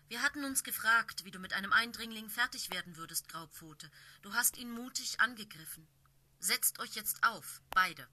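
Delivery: loud, commanding she-cat; stern she-cat leader. Acted. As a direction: speak as a proud leader cat addressing apprentices. Blaustern voiced in story.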